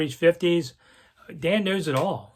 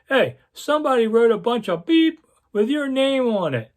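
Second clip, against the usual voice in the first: high, louder gruff editor scolding; mock editor berating; 9 semitones higher, 4 dB louder than usual. Editor on the phone scolding the young reporter, mock gruff. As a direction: bark it like an old newspaper editor chewing him out.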